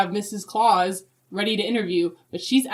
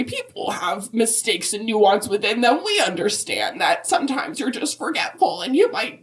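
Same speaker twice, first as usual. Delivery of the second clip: Mrs Claus voice; 2 semitones higher than usual. Acted. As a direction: play a chirpy grandmotherly Mrs Claus. Mrs Claus guest on podcast.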